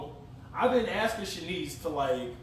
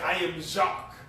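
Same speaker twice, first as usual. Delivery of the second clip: light mock-French accent; lightly faked French accent; fake French accent. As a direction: put on a playful French accent. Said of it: "fake a French accent".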